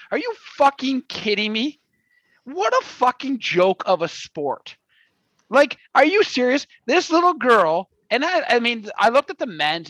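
a hammed-up angry rant, swearing at the sport; mock rant. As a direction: rant like an outraged sports fan, half in jest. Staged rant segment on skateboarding.

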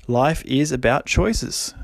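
choices drawn out slowly, ending on a rise; slow, let it sink in. Shown as a demonstration. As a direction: savour each word of it slowly. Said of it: "just let that sink in".

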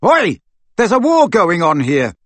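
high, loud exasperated call; loud, indignant protest. A narrator's reading. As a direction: shout to break them up. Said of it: "he raised his voice".

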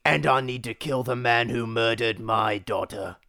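deadpan action-hero vocal fry; creaky vengeful line. Pretend. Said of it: "me doing bad vocal fry".

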